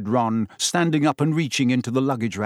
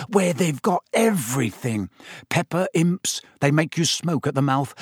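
lightly dreamy, savouring each sweet; a touch of longing as you list treats; 4 semitones higher than usual. Acted. Ron lost in a reverie about Honeydukes sweets, mildly dreamy. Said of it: "a dreamy look coming over his face".

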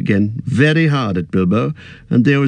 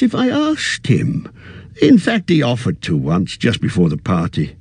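put-on a fussy old hobbit, a little weary; old hobbit voice, tired at heart; Bilbo. Bilbo's voice in narration.

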